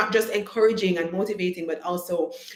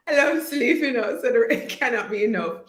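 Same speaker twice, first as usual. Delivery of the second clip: laughing; 5 semitones higher than usual. Real, not acted. Laughing at own joke about sleep.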